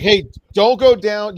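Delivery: loud, slow, casual warning; briefing officer warning players off the subway, loud and slow; offhand warning. Retold or imitated. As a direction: tell them not to go down like it's routine. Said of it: "it's like".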